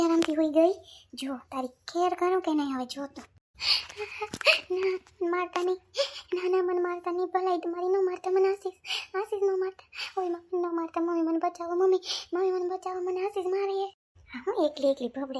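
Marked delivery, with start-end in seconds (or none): 4.7-14.0 high, pleading cries not to be hit; begging in fear. Acted. Scared girl begging Ashish not to hit her, panicked high pleading. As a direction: beg them desperately to stop. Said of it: "કેમ રોવે છે?".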